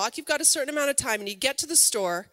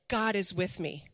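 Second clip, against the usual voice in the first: spoken affirmation; 5 semitones lower, 5 dB quieter than usual. Shown as a demonstration. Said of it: "to speak to our spirit and to say".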